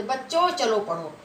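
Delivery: बच्चों, a brief break, then चलो पढ़ो; short pause after बच्चों. Shown as a demonstration. Teacher showing a comma in address, slight pause after बच्चों. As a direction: pause lightly once you say बच्चों. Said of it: "बच्चों के बाद हल्का सा रुक गए".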